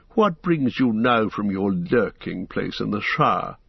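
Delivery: lightly voiced proud wizard, scornful; a hint of a cold, mocking wizard; haughty Saruman.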